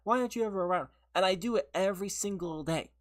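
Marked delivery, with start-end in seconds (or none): 0.0-0.9 mock whiny nag. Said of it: "the next day say".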